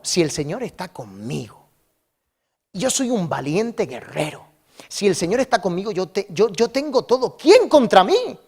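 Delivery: declaration of faith, rising from subdued to defiant; growing defiant confidence. Acted. Preacher voices Gedeón trusting the Lord is with him, growing defiant confidence.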